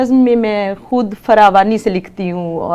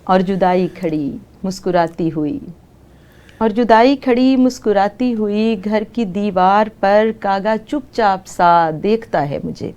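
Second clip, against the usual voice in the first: poem recitation. Acted. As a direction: recite it like at a mushaira. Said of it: "اس میں سے ایک نظم سناتی ہوں".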